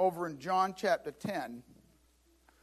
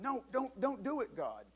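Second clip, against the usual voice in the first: higher and softer, begging; pleading; 4 semitones higher, 6 dB quieter than usual. Acted. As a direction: beg God gently but desperately. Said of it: "begged God, pleaded with him".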